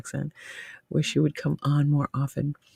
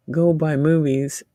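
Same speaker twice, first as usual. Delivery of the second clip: ordinary delivery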